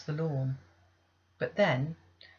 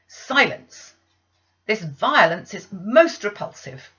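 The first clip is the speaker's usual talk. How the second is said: cold command; 4 semitones higher, 12 dB louder, slower than usual. Acted. Aunt cutting off the child.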